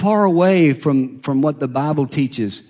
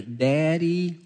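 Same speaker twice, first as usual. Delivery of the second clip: daughter sweet-talking; 2 semitones higher, 6 dB quieter than usual. Retold or imitated. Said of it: "She goes".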